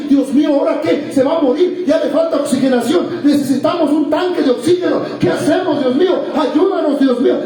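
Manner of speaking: urgent appeals to God, one after another; acted anguish. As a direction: play a relative pleading in distress. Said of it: "A angustiarnos".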